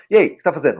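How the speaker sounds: "o que você tá fazendo" squashed into "cê tá fazeno"; casual spoken contraction. Shown as a demonstration. Guest imitates a phone call to someone, casual contraction. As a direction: slur it together like everyday Brazilian talk. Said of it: "E como nós falamos?".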